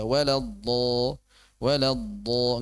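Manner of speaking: "Walad do" with a one-beat vowel; short correct madd. Shown as a demonstration. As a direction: hold the vowel just one count. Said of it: "Udah satu harokat aja". ("Walad do" satu harokat)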